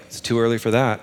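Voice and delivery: put-on light Southern accent. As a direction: read it with a mild Southern twang. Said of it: "read Peter with a Southern accent".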